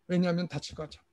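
usual speaking voice

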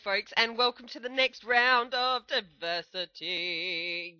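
drawn-out hammed-up Australian g'day, slow; cliche Aussie greeting. Host greets viewers in a cliche Australian g'day. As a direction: stretch out a cliche Australian welcome. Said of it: "A big cliche g'day".

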